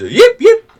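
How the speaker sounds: very high, loud yelps; goblin yipping. Acted. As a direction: yip shrilly like a small creature. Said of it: "he also goes".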